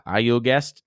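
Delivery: lightly put-on Spanish accent. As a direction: attempt a Spanish-accented question while retelling. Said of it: "Why the accent?".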